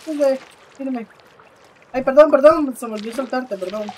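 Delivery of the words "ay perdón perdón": loud hasty apology. Real, not acted. Forgot to let go of friend.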